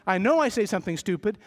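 ordinary talk, nothing marked

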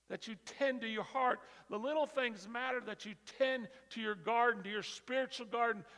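loud, rousing sermon cadence; preaching at full force. Real, not acted. Preacher rousing the congregation about little things. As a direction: build and drive every line.

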